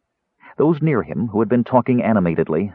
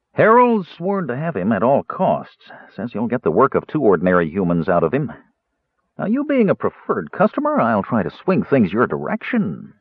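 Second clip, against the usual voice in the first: scheming dealer; 2 semitones higher than usual. Acted. Dealer baiting the dwarf with Harold, scheming. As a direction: tempt him with a rival.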